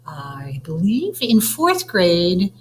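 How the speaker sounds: slow breathy whisper to the class; slow whispered aside. Real, not acted. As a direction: drop into a whisper for a quick aside. Teacher's quick aside.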